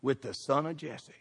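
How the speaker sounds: accuse, then let it sink; old Saul raging. Acted. Saul accusing Jonathan of siding with David, angry. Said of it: "Listen to old Saul".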